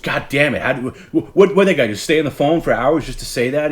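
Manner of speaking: loud, high-pitched mock exasperation; infuriated Howard. Imitating the host ranting about a prank caller, infuriated. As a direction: rant like a host at his wits' end. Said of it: "Howard would get infuriated by it".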